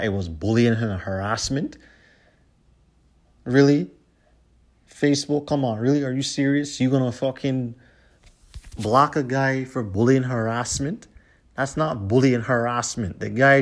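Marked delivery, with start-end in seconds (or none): 3.4-10.2 incredulous outburst. Real, not acted. Vlogger calling out Facebook for banning a fan, incredulous. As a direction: throw the questions at Facebook, fed up and stunned. Ranting at Facebook's ban decision.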